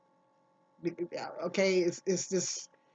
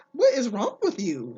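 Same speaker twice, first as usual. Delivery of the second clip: raised, louder retold challenge; indignant retort; 3 semitones higher, 5 dB louder than usual. Retelling her reaction to her ex's phone complaint, indignant. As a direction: push back in disbelief, as a retelling.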